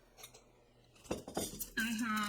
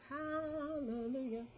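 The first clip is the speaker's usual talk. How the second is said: relieved hallelujah; 4 semitones higher, 5 dB quieter, much slower than usual. Real, not acted. Relief after finally escaping loop.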